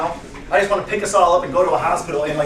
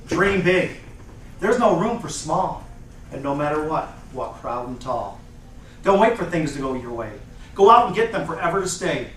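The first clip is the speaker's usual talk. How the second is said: measured rhymed recital with pauses; motivational poem; 6 semitones lower, 4 dB quieter than usual. Acted. Speaker ending the presentation with a poem, earnest recital. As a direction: punch each opening, let the rhyme fall.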